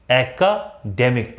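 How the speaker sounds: एकेडमिक drawn out slowly as a-ka-DEM-ik; slow correct academic. Shown as a demonstration. Teacher slowing down to show एकेडमिक. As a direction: spell out एकेडमिक syllable by syllable. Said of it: "इसको पढ़ेंगे".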